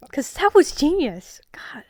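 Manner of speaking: slow whispered boast through laughter; laughing whisper. Real, not acted. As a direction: gloat with a giggle.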